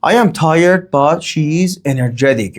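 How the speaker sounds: "I" set against "she"; contrastive stress. Shown as a demonstration. Teacher comparing two subjects, contrastive stress. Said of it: "Comparing and contrasting".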